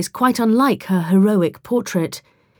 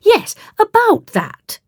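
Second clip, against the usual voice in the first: high, slow, hesitant query; reluctantly sceptical, pitched well up; doubtful; 3 dB louder, slower than usual. A narrator's reading. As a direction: voice your doubt despite yourself. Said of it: "voicing her doubts despite herself".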